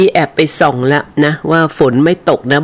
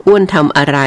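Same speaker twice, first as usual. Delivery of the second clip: ordinary talk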